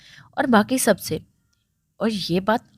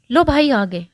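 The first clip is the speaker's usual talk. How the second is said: bright greeting, higher and louder; smiling; 5 semitones higher, 6 dB louder than usual. A narrator's reading. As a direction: announce the arrival with a smile. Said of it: "देखकर मुस्कुराते कहा".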